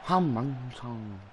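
slow, silly put-on voice; stupid voice. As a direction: drag it out in a daft voice. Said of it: "I just did it in a stupid voice".

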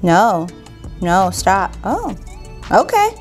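ordinary talk, nothing marked

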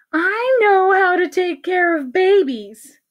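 high, slow, drawn-out boast; self-assured teacher. Acted. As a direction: declare it with great confidence. Teacher boasts of know-how.

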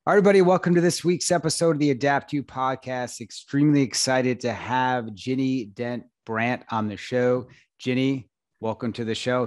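host welcoming listeners to the podcast, upbeat announcer read; podcast intro. Acted. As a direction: kick off the episode like a radio host. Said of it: "Take two. Here we go".

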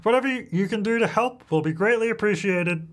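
lightly voiced old lady; a hint of an elderly pet owner. Shown as a demonstration. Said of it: "the elderly voice".

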